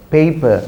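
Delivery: paper said as PAY-puh; correct pronunciation. Shown as a demonstration. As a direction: say paper with a clear "ay" diphthong. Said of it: "This is a diphthong sound".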